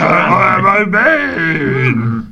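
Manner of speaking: high, slow Yoda voice. Acted. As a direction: croak it like Yoda. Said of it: "I'm a Yoda".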